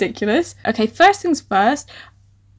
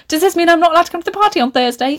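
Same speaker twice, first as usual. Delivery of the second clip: high, rapid mock-earnest question; mocking imitation; 6 semitones higher, faster than usual. Reader mocking her own unnatural dialogue, exaggerated imitation. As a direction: parody the stilted line, high and rushed. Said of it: "You wouldn't be like".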